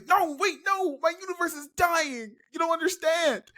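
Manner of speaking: high, frantic wail of despair; panicked high cry. Acted. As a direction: yell it high like the world is ending. Kincaid panics, universe dying.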